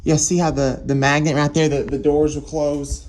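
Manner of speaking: shouting over fire alarm. Real, not acted. Fire alarm sounding in building.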